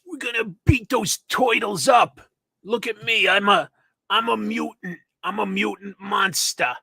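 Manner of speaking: put-on mutant villain voice; mutant monster. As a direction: play a cartoon mutant itching for a fight. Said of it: "mutant enemy voice for the Ninja Turtles".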